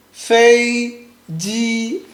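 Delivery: FEI JI, both level, JI held long; flat fei, then a drawn-out ji; light first, stronger second. Shown as a demonstration. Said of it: "you make it much stronger".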